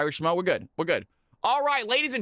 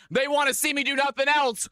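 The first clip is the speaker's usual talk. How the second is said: higher, emphatic; 5 semitones higher than usual. Shown as a demonstration. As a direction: say it out with a grin. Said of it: "repeats line differently".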